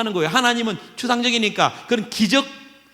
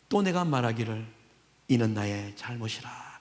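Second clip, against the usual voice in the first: hushed whisper of the verse; whispered confession; 10 semitones lower, 9 dB quieter than usual. Shown as a demonstration. Psalmist whispering his own fault to God. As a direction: breathe it out as a confession. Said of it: "verse whispered".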